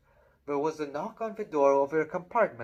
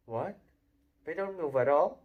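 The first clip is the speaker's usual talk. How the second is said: amazed; 2 semitones higher, 3 dB louder than usual. Acted. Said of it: "Ron sounded amazed".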